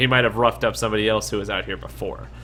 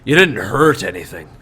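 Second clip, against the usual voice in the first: Shorty's voice; 4 dB louder than usual. Acted. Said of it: "He goes".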